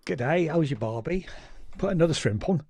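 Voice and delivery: put-on a Yorkshireman's jokey stab at an Australian accent; lightly hammed-up Australian accent, Yorkshire showing through; mock Australian accent. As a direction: lay on a cheesy Aussie twang, half-joking. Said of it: "that's a very Yorkshire, Yorkshire, Australian accent".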